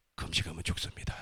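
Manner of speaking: hushed, whispered voice.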